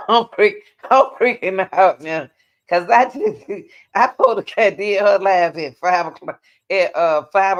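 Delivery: loud, agitated outburst; worked up and raising the voice; freaking out. Real, not acted.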